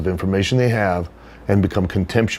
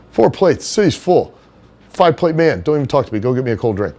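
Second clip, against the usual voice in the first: Johnny Canine's voice; 4 semitones higher than usual. Retold or imitated. Johnny blowing off Henry, high bro voice fading down. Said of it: "that's how he would talk".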